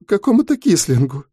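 a scared teacher barely holding back tears; young teacher telling a fellow prisoner her plight; frightened young woman. A narrator's reading. Girl continues after sob.

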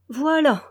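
Voilà declared high and loud; emphatic voilà. A narrator's reading. The old steward answering, pompously emphatic. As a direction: pronounce Voilà with pompous weight. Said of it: "prononça emphatiquement".

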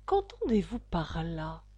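low, understated severe question; stern. A narrator's reading. Caterpillar questioning confused Alice, low and stern. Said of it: "d'un ton sévère".

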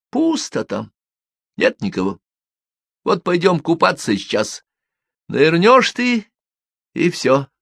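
menacing gang boss. Acted. Filin threatens Kol. (главарь, спокойно угрожает)

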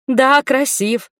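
mildly ardent, drawn out and lifted high; ardent sob. A narrator's reading. Heroine admitting to Макеша he is handsome, mildly ardent sob. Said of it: "пылко всхлипнула я".

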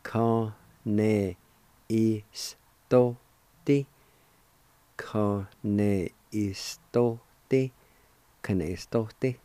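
"Kaneistote" said carefully, the middle take slow; careful teacher repetition; repeated model word. Shown as a demonstration. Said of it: "it's pronounced like this".

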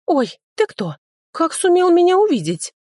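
very high, startled little squeak; startled young dryad squeaking at the stranger; squeaky dryad. A narrator's reading. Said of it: "пискнуло лесное чудо".

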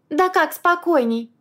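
high, slow outraged protest; indignant. A narrator's reading. Wife outraged at being told to calm down, indignant. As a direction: throw the word back, outraged. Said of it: "возмущалась беспредельно она".

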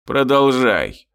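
slow, gruff orc growl. Acted. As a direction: growl it sullenly. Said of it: "угрюмо рыкнул".

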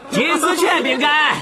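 slow, laughing call to crowd. Acted. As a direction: announce it with a laugh. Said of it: "对情绪高涨的人群喊道". (对人群高喊)

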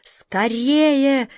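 high, urgent rallying cry; urgent call. A narrator's reading. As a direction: hurry them with a high call. Captain rushes to save sailors.

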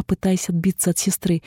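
ordinary delivery, nothing marked

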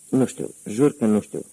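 lightly voiced frantic plea; mild mock panic, pleading; frantic cry. A narrator's reading. Mary Lou begging the gangster with the cigarette, mildly frantic. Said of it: "strigă ea înnebunită".

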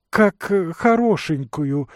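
sharp interruption. A narrator's reading. Wife interrupting her husband's story, high and jealous. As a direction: cut him off, suspicious. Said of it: "перебила жена".

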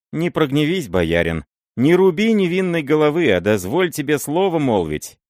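put-on high loud begging of a scared old man; fearful plea. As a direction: plead for your head, nervous and urgent. Miller begging not to be killed.

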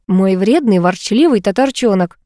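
tender teasing, drawn out at the end; gentle, indulgent endearment; affectionate. Acted. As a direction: tease your sweetheart fondly. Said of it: "ласково сказал мужчина".

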